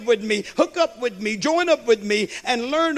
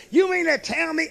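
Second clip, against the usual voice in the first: higher, pinched mock outrage; mimicking indignant lady; 5 semitones higher than usual. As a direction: play the huffy golfer lightly. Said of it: "confront us and say".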